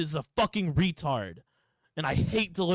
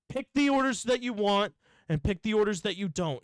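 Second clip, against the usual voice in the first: higher, flowing exasperated instruction; exasperated repeat; 4 semitones higher than usual. Retold or imitated. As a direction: say "Pick the orders that you want" higher, in one run. Acted quarrel, repeats the choice.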